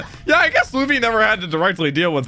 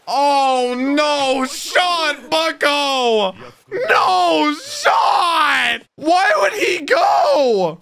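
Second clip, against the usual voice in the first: overacted anime dub; 7 semitones higher, much slower than usual.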